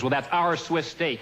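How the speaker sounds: slow, smug manager stressing "our". Retold or imitated. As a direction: bluff it out slowly like a manager. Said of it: "The manager comes over and he says".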